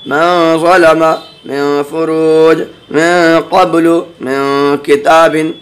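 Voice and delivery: slow, drawn-out tajweed recitation of each example; Quranic recitation. Acted. Teacher reciting examples to students, slow and measured. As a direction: intone every word with care.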